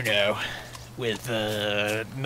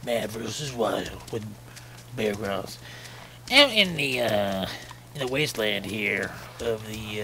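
Bear Grylls impression. Gamer mimicking Bear Grylls narrating, mild impression. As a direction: narrate the wasteland like a TV survival host. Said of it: "that's what he sounds like".

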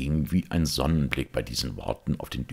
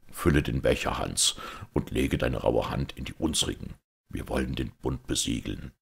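put-on a lightly lowered, solemn old knight; proud outlaw knight; 2 semitones lower than usual. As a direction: speak with grave, defiant pride. Outlawed knight speaks in cave.

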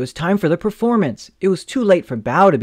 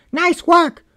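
high, louder sarcastic shout; mocking yell; 5 dB louder than usual. A narrator's reading. Teammate jeering a girl who missed the ball, high sarcastic yell. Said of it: "a player from the team yelled".

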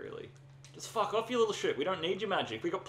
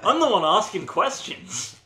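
laughing; 9 semitones higher, 12 dB louder than usual. Real, not acted. Teasing buddy mid-game.

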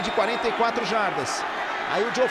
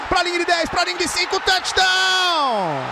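touchdown call; 5 semitones higher than usual. Real, not acted. Touchdown called live.

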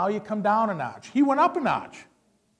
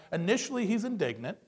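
normal talking voice

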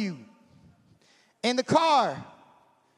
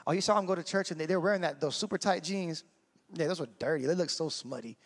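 gossipy hush; 5 semitones lower, 6 dB quieter than usual. Acted. Acted gossip about a churchgoer.

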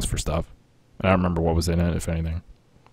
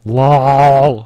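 laughing; 6 semitones higher, 11 dB louder than usual. Real, not acted. Laughing at teammate's question.

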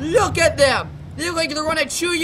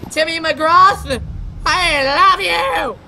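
fan shout; 3 semitones higher, 4 dB louder, much slower than usual. Acted.

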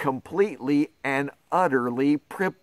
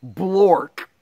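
nonsense word; 4 semitones higher, 4 dB louder than usual. Acted. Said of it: "even if the words say".

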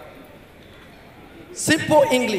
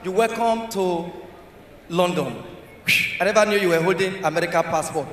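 softer, lower, humbled apology; apologetic officer; 4 semitones lower, 7 dB quieter than usual. Acted. Immigration officer to American passport holder, meek apology. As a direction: back down meekly and respectfully. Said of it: "immigration police apologize to somebody".

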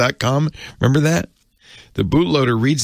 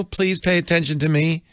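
higher, mock voice-assistant chirp; imitating Siri; 7 semitones higher than usual. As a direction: playfully mimic a chatty phone assistant. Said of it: "Siri goes".

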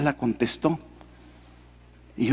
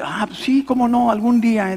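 mock polite brush-off; 7 semitones higher than usual. Brushing off the friend's invitation.

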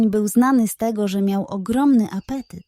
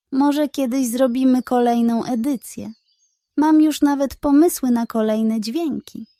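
cheerful hen; 2 semitones higher than usual. Acted. Hen character voice.

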